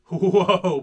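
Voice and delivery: a loud startled whoa; mild shout at the sight; startled cry, loud. A narrator's reading. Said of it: "Peter shouted".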